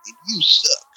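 lightly mocking impression of a film character's voice; imitated movie voice. Complaining about an actor's voice in a commercial, lightly mimicked. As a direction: mimic a grown-up Venom's odd voice. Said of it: "Just his voice".

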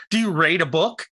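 "rate" with a long ay for "read"; mispronounced read. Shown as a demonstration. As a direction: put a long ay vowel in "rate". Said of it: "You don't rate a book".

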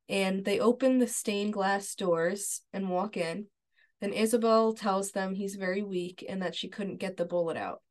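measured, even read-aloud storytelling; recap narration. A narrator's reading. Host recaps a TV episode scene for listeners, measured narration. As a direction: read the scene out steadily, line by line.

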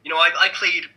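put-on hammy American accent; bad American accent. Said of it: "the worst American accent you've ever heard".

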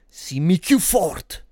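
slow Neapolitan street dialect, "Simmi" drawn out; neapolitan street slang. Pretend. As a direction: Neapolitan street-guy voice, "più" stretched slowly. Dialect line repeated.

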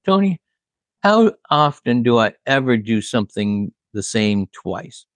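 high-pitched mock question in a singer's voice; lightly voiced singer impression, teasing; imitating a singer. The singer asking the bass player, mock singer voice.

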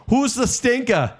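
high, slow ring call; mock wrestler yell. Wrestler calling to the crowd, a high mock yell. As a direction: belt it out like a wrestler entering the ring, drawn out. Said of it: "she'd yell".

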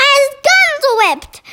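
high-pitched mock shout; giant's shout. A narrator's reading. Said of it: "shouted the meat dripper".

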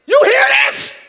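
high sudden shout; mock startled yell; excited call-out. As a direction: grab their attention. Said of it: "I'm like".

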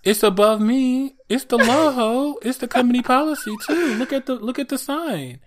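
loud, high, mock-furious telling off; mock angry clerk. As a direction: tell her off, hammed-up and fierce. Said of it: "what would you have said?".

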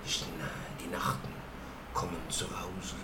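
hushed mock German poetry voice; German accent. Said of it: "this German voice going like".

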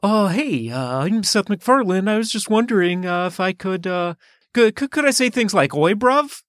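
put-on voice, haltingly asking permission; Seth MacFarlane. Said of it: "let me try to do his accent".

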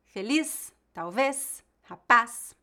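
"feliz, talvez, rapaz" as careful examples, leaning on each ending; final-syllable stress. Shown as a demonstration. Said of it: "têm a tônica na última sílaba".

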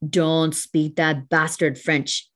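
slow, measured mock reprimand; lightly voiced disdainful policeman; police officer's rebuke. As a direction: imitate an officer, each word drawn out. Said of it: "And he said".

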